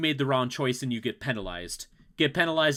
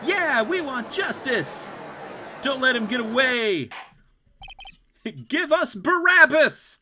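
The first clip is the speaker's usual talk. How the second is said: higher, slow mob heckling; jeering crowd; 8 semitones higher than usual. Acted. Voicing the courtroom crowd.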